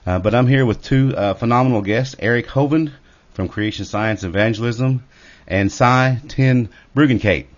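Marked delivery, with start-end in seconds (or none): 5.5-7.5 slow, careful Ten Bruggencate, spelled out by sound; careful name. Real, not acted. Host carefully sounding out the guest's Dutch name. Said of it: "I think I said that pretty close".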